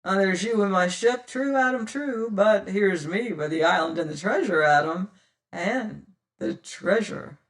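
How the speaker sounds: cheery hail. Acted. Tressady hailing his old enemy Penfeather, loud and cheery. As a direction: call out across the water, long and cheerily. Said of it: "hailed long and cheerily".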